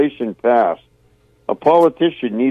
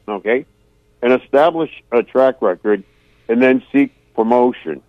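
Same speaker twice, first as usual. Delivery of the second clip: deliberate phrases with pauses between them; slow it down so every listener can follow; measured, phrase by phrase; slowed-down delivery. Real, not acted. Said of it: "I'll slow it down a little bit".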